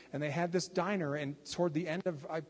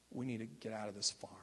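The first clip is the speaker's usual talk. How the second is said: whispered, lower retold demand; whispered husband's threat; retold ultimatum; 4 semitones lower, 7 dB quieter than usual. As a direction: hush it like a hard confession.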